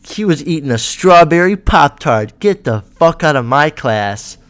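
loud, hammed-up indignation, slowing on the order; mock outrage. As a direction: play a teacher scandalized by a snack. Mocks teacher's outrage over Pop-Tart.

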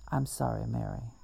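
barely voiced remorse; soft sad apology. Sad Daisy apologizes softly.

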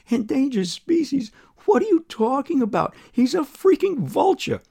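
incredulous outburst, high and loud; indignant retort. Acted. Driver answers the woman's accusation about Buzz, indignant. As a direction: argue back in loud, high-pitched disbelief.

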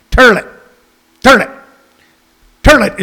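"Turlet" punched out one at a time, er vowel for oi; toilet as turlet. Shown as a demonstration. Host answering bothered people, "Turlet" repeated deliberately with an er vowel. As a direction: defiantly repeat "Turlet", said TUR-let. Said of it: "Turlet is what I said".

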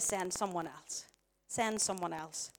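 low, soft, slow plea; subdued refusal. Acted. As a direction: drop right down and repeat it slowly. Quotes Moses's refusal, now subdued.

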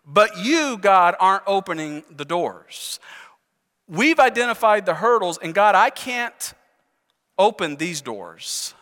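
drawn-out, halting plea to God with stressed words; frustrated prayer. Retold or imitated. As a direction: plead with God in mild frustration, stretching key words. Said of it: "in a sense of frustration".

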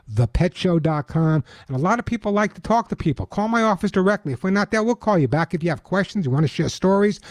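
upbeat radio ad read; chipper 1950s ad. Acted. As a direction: sell it bright and eager. Host reads his sponsor ad.

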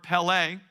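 pele said PEH-lay, stress on the first syllable; Hebrew word. Shown as a demonstration. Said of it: "a Hebrew word".

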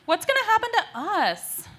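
high, loud worried cry; alarmed. Acted. Student to principal over the punishment, alarmed. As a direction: blurt it out in alarm.

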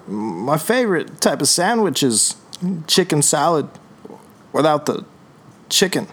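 slow, halting actor impression. Impressionist restarts a mystery actor for guessing friends, halting impression. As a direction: draw it out in a lightly put-on actor's voice. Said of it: "it's an actor".

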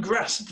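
grasped with a short flat northern a, like "cat"; northern pronunciation. Shown as a demonstration. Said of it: "with my slight northern accent".

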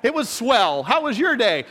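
put-on hammy old-sitcom child; wholesome 1950s kid. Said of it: "my kids are just looking at me going".

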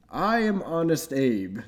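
imitating a stately Lincoln; mock-solemn Honest Abe. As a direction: say it like a president introducing himself. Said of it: "You started out like".

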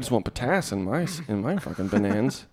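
lightly put-on street slang voice; street talk. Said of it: "street talk you're doing".

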